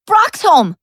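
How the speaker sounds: high desperate shout, drawn out; calling out. A narrator's reading. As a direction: yell after him, begging. Calling after vanishing alien.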